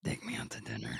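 low whispered little demon voice; scary troll voice. Pretend. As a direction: growl it low like a tiny demon. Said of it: "Scary troll".

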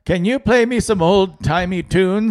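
put-on high, slow creaky old-timer asking; a doddering senior asking the speaker for tunes. Senior asking Google for old tunes, high and slow. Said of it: "every senior would be like".

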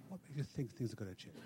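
too quiet. Real, not acted. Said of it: "I couldn't hear what you were saying".

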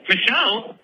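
high, drawn-out protest with a laugh; mock exasperated correction. Caller setting dance teacher straight, mock exasperated.

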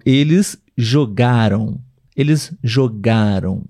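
JOGARAM with a long stressed GA. Shown as a demonstration. Teacher giving a past-tense example, middle-syllable stress. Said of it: "a sílaba tônica está no meio da palavra".

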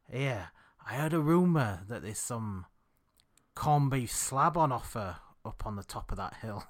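lightly put-on Yorkshire voice; fake Yorkshire accent. Dog walker sharing a corned beef rumour, mock Yorkshire accent. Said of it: "your fake Yorkshire accent".

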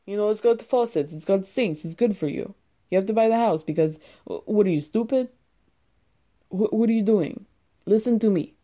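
lightly put-on accent as a pushy house seller, fast at the start; a hint of an impatient salesman badgering the buyer; imitating Andre. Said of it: "that was the best Andre I could do".

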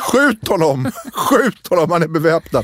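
mock urgent order. Playing girlfriend ordering police to shoot.

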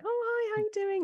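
high bright cat greeting. Shown as a demonstration. Expert shows the cat voice, high pitched greeting. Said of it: "Like, higher pitched voice".

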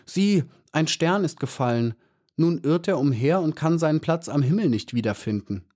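little bee points out a lost star, excited; excited calling. A narrator's reading. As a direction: call out in wonder. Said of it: "rief sie".

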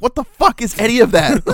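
high, loud comic bewilderment; laughing, exaggerated disbelief; baffled recruit. Recruit hears unknown Navy words at boot camp, high-pitched bafflement.

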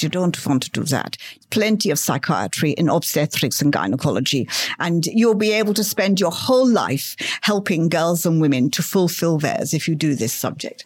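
a hint of an Eastern European mentor advising; Eastern European accent. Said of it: "in this very Eastern European accent".

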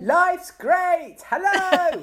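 high, honking goose voice. Pretend. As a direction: squawk it out like a cheerful goose. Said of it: "They go".

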